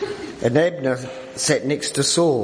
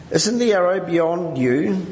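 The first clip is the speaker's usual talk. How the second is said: mild call, higher and drawn out; 5 semitones higher, slower than usual. A narrator's reading. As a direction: lightly call after someone, stretching the words. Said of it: "Jonathan called out after him".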